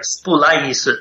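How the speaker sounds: put-on splice as spulaisu, with a light Korean accent; Korean-style pronunciation. Colleague imitating a Korean speaker saying splice. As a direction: give splice extra vowels, spulaisu. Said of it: "ask a Korean or Japanese speaker".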